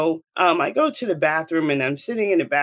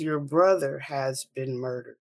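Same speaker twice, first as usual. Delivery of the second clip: measured, slower retelling of bad news; slowed repeat; 2 semitones lower, 3 dB quieter than usual. Mother repeating news to her daughter, slowed down. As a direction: repeat it slowly and deliberately. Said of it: "Slow down and say that one more time".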